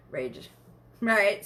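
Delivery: ordinary delivery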